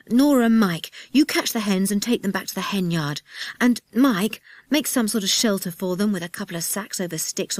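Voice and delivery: lively, commanding instructions; brisk orders. Acted. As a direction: hand out jobs like a captain. Leader giving orders before storm.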